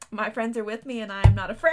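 rising into a loud, laughing declaration; dramatic quote. Retold or imitated. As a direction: proclaim the line like a hero, ending in a laughing shout. Quoting favorite line dramatically.

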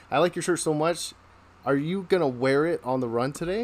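butter him up as a joke; mock admiration. Sergeant keeps up false admiration.

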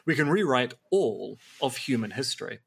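lightly put-on unnamed accent, mocking Graham Hancock's reasoning; a touch of a put-on accent while parodying; mock documentary accent. Parodying Graham Hancock's claims to a co-host, in a light put-on accent. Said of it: "I don't know why I'm doing that accent".

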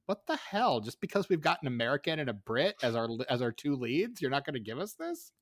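acted-out complaint ending on an incredulous question; indignant protest. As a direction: argue back in put-upon disbelief. Acts out indignant filmmakers protesting.

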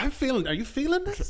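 retold flirting. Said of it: "who I start flirting with".

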